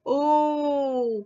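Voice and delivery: high, loud scared hen cry; a high frightened "oh"; frightened squawk. Acted. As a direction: let out a startled hen's shriek. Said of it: "हेनी पेनीनी काय केलं".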